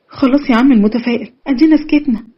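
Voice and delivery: put-on a girl teasing the optimist, then falling silent; mock surrender. A narrator's reading. Nada gives in sarcastically.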